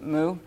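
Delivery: "mu" said clearly as moo; pronunciation model. Shown as a demonstration. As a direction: model "mu" with a long oo. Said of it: "trying to help you pronounce it".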